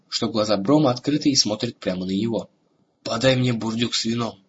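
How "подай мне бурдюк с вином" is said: weak, hoarse croak; hoarse rasp. Acted. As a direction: croak it out with effort. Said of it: "с трудом прохрипел Бром". (хриплый слабый голос)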